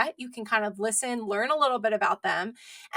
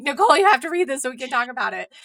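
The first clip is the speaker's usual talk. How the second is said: pushy recommending; 4 dB louder, much faster than usual. Retold or imitated. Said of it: "I was the one that was always like".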